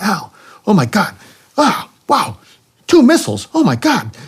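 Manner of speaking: mock-excited Puerto Rican accent, pitch shooting up; high, amazed Puerto Rican accent, hammed up. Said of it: "very, very thick accent when he gets excited".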